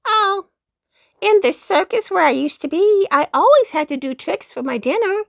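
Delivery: high, bright little-dog cry; poodle exclaiming. A narrator's reading. Poodle dog finishing tricks for the rabbit, high and proud. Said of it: "said the doggy".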